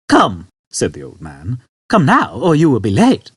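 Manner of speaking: put-on urging old man. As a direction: urge him along.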